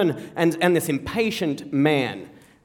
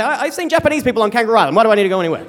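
dad's excuse; 3 semitones higher, 5 dB louder, much faster than usual. Retold or imitated. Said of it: "he'd say".

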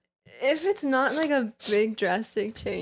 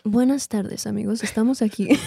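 radio interview voice. Pretend. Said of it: "do a whole intro ... in your interview voice".

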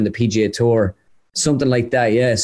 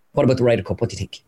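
put-on German accent; 2 semitones lower, much faster than usual. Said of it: "in German, he says".

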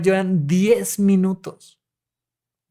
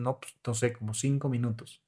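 unsure client; 6 semitones lower, 12 dB quieter, faster than usual. Retold or imitated. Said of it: "Me dicen".

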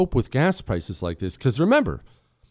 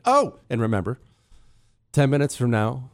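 normal talking voice

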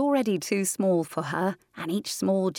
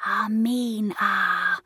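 very slow sighing name; drawn-out sigh; 3 semitones higher, much slower than usual. Acted. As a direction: breathe the name out like wind. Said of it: "drawing out the last syllable ... like a long sigh".

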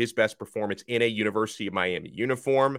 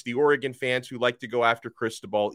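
usual speaking voice

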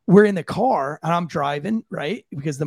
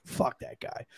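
whispered; 10 dB quieter, slower than usual. Real, not acted. Echoing the curse under breath.

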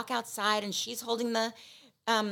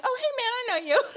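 awkward greeting; 14 semitones higher, 3 dB louder, faster than usual. Retold or imitated. Awkward greeting to a stranger she knows.

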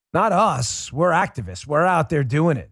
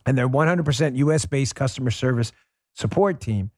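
lightly voiced upbeat ad read, a touch more pitch than his chat; sponsor ad read; 4 semitones lower than usual. Host reads a sponsor spot to his listeners, upbeat ad voice. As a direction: sell it like a friendly radio spot.

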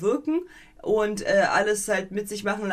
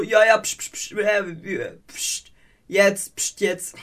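offhand shushing, slow; dismissive shushing; slower than usual. Retold or imitated. Cook shushing the melons, dismissive. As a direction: hush them off like nothing. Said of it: "Und die so".

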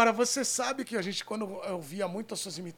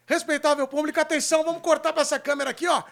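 announcer call; 7 semitones higher, 9 dB louder, faster than usual. Acted. Host announcing to audience.

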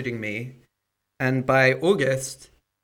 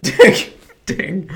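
imitating a ding; 5 semitones higher, 8 dB louder than usual. Shown as a demonstration. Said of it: "It's not even a full ding".

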